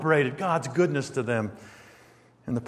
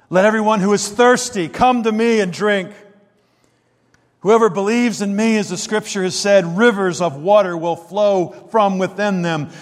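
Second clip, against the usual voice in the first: higher, louder, proclaiming to the crowd; 5 semitones higher, 3 dB louder than usual. Acted. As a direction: call it out like a preacher at a feast. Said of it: "Jesus stood up in a loud voice".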